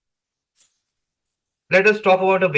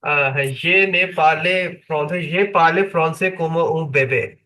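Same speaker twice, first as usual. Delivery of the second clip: broken French. Real, not acted. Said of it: "I speak French like a child".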